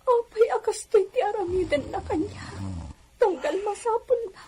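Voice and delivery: crying. Acted. Wife laments her husband's cruelty.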